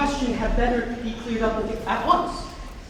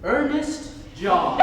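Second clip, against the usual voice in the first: slow discovery; 5 semitones higher, much slower than usual. Acted. Reading his father's name.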